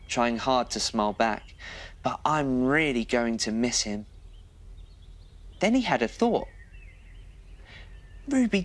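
gentle, lively bedtime story read; cosy storyteller voice for a little one; reading to children. A narrator's reading.

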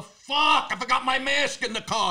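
high, sudden dismayed outburst; retold flustered curse; mock panic. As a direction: curse at yourself for forgetting.

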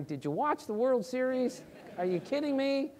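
high-pitched, disbelieving challenge; incredulous. Real, not acted. Fan rebutting claims that baseball is boring, incredulous. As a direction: push the questions up high in disbelief.

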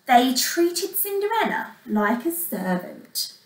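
put-on measured storyteller for young children; expressive bedtime-story reading; story narration. A narrator's reading. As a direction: tell it like a fairy tale, words carefully weighted.

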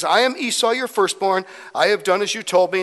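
mildly hurried son addressing his father. Retold or imitated. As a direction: rush through the claim, acted out. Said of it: "in a bit of a hurry here".

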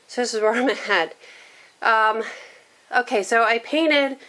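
wheezing between words; breathing a little wheezy from asthma. Real, not acted. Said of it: "I'm sorry I'm wheezing".

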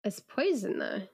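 slipping into a Kiwi accent; light New Zealand vowels. Real, not acted. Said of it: "slipping into your New Zealand accent".

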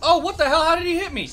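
raging gamer. Real, not acted. Player hit by boss.

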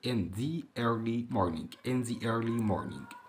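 the before early said slowly and linked to the vowel. Shown as a demonstration. Teacher showing pupils how the links to a vowel, slowly. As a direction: stretch out in the early morning, gliding the into early. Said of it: "لما يجي بعدها كلمة بادئة بحرف متحرك".

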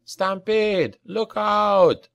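high, urgent alarm; shouted warning. A narrator's reading. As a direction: call out danger to everyone around. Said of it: "he shouted".

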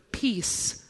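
hushed, falling into a whisper; soft whispered command, spaced out. Acted. Preacher voices Jesus calming the storm, whispering. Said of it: "calms the storm with a whisper".

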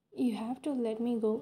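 begging. A narrator's reading. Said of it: "I begged".

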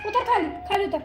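laughing through the order to get down; half-laughing, half-pleading get down; laughing command. Real, not acted. Owner laughing as she orders the pet down.

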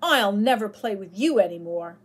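put-on boy shouting at his friend who broke his bow; furious shouting. A narrator's reading. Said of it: "shouted David furiously".

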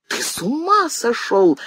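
mother shouting. A narrator's reading. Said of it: "закричала Варвара Петровна".

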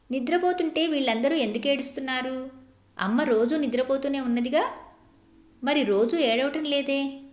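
put-on puzzled little girl. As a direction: ask like a confused child who doesn't get death. Child asks grandfather, puzzled. (అమాయకమైన చిన్నపిల్ల గొంతు)

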